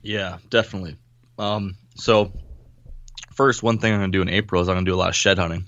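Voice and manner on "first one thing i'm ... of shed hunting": talking with hiccups; hiccuping between words. Real, not acted. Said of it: "I got the hiccups over here".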